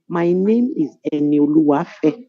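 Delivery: slowly spelling out a full name; correcting son. Retold or imitated. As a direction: lightly imitate a child's slow, deliberate correction. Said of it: "He would actually correct you and tell you".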